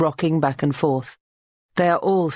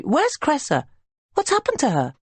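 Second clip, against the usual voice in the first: higher, anxious and urgent; frantic asking; 11 semitones higher than usual. A narrator's reading. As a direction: demand the answer in fear. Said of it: "rushing in as soon as she is free".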